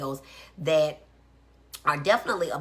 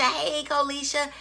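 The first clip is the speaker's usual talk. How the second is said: excited greeting; 10 semitones higher than usual. Real, not acted. Greeting live viewers.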